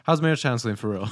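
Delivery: flat monotone question. Acted. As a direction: ask it in one flat tone. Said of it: "your monotone".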